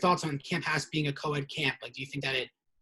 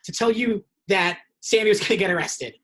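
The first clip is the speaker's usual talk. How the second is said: higher, louder mock-incredulous recap; sarcastic disbelief; 4 semitones higher, 5 dB louder than usual. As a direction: spell out how absurd his story is. Mocking a camper's unlikely claim.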